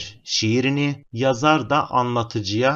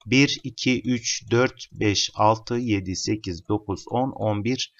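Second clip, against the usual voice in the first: counting syllables. Shown as a demonstration. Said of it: "Hemen ölçüsüne bakalım".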